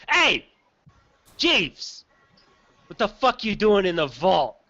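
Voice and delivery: lightly voiced gnoll challenging an intruder; confronting gnoll. Gnoll catches Jeeves in the vault, confronting him.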